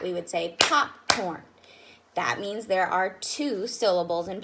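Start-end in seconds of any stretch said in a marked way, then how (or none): 0.6-1.4 POPCORN split into two beats, pop, corn; syllable by syllable. Shown as a demonstration. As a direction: clap out popcorn with a gap between pop and corn. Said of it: "try to clap with that".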